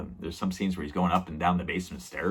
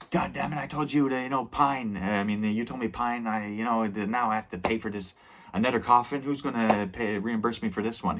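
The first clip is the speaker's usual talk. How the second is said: higher, ranting and exasperated; furious uncle; 4 semitones higher than usual. Retold or imitated. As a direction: vent at the nephew, pitched up in a fury. Uncle furious at his nephew.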